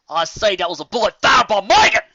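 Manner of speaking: loud, high and eager; excited. Acted. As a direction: call it out with growing excitement. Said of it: "his expression brightening".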